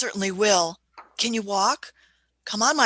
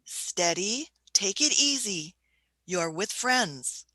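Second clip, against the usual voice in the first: gentle reassurance; 3 dB quieter than usual. Acted. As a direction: ease him down gently. Doctor calms the rescued man.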